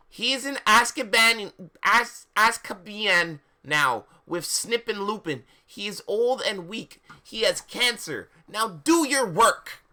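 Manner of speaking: high, loud put-on official; hammed-up high-pitched telling-off; scolding character voice. Voices shouting Cornelio in story.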